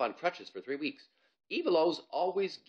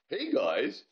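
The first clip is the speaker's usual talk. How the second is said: higher, louder greeting; boy calling up; 6 semitones higher, 6 dB louder than usual. Acted. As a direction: call up to friends. Gazink calling from below.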